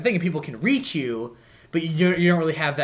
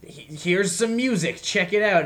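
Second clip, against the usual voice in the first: spammy band voice; 5 semitones higher, slower than usual. Retold or imitated.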